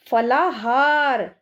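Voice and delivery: फलाहार read slowly, each syllable clear; slow reading aloud. Shown as a demonstration. Teacher reading a word to children, slow and clear. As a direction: spell it out slowly for the class. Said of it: "तो कैसे पढ़ेंगे इसको".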